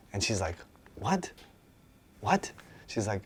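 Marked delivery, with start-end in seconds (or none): 1.0-2.5 high, startled double what; stunned what. Retold or imitated. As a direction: voice jumps up in disbelief. She is stunned by his words.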